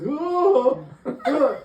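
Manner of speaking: high mock wail, half laughing; imitated panicked wailing. Storyteller mimicking a man flailing across the field, mock wailing.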